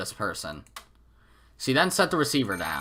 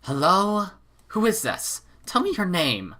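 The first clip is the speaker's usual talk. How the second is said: higher, displeased wife voice; 8 semitones higher than usual. Acted. Wife pressing the silent caller, mildly displeased. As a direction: demand it with a lightly cross edge. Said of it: "sounding displeased".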